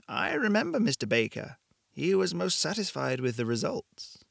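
put-on calm, knowing woman with an accent from somewhere in Europe; vague European accent. A narrator's reading. Shopkeeper tells Blake why he came, vague European accent. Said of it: "Her accent was impossible to place".

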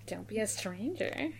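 soft, tentative sign-off; soft try-out. Pretend. Co-host trying out a suggested podcast sign-off, softly. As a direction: try the catchphrase quietly.

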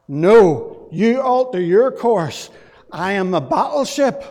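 mock shouting down the other ship; forceful refusal. Captain insists over the radio.

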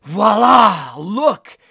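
loud, showy Voila; a proud, booming reveal; divine voila. Pretend. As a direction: present it with a flourish. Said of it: "Like the Lord is going".

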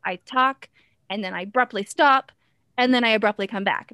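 abrupt halt after "stop", then straight back in; talk, cut off dead on "stop", pause, resume abruptly on "and then"; staccato rhythm. Shown as a demonstration. Performer showing their own rhythm, staccato with an abrupt pause after "stop". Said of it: "my actual rhythm is quite staccato".

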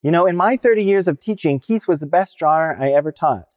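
lightly imitated teacher making an announcement; proclaiming. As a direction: proclaim it proudly for everyone present to hear. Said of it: "she goes to proclaim".

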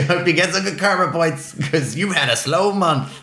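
lightly voiced smug agent; a hint of a teasing agent. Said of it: "That's a good, good agenty thing to say".

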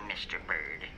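menacing whisper. Acted. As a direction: hush it ominously. Ominous whisper.

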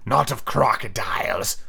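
slow villain captain; drawn-out pirate chief; correcting captain. Acted. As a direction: correct him slowly and pointedly. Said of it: "who corrected him".

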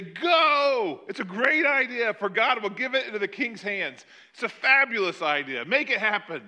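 loud, high, emphatic urging; big booming yes-men enthusiasm; rousing cheer. Acted. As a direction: cheer them on like an eager crowd. Four hundred prophets cheering the king on.

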